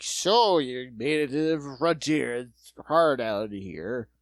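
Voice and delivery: slow, slurring mock drunk frontier man; a lightly voiced drunk drawling his lines; drunk Raymond Burr. Mocking a drunk actor in an old trailer, slow slurred lines. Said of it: "drunk Raymond Burr".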